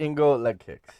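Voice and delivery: lightly put-on accented fighter voice. Shown as a demonstration. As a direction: do a clumsy champion impression. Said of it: "my G S P is the worst".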